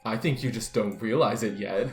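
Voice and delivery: low, soft, creepy menace; a low creepy murmur to the stranger. Acted. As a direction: lean in and unsettle them quietly. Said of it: "That's really creepy".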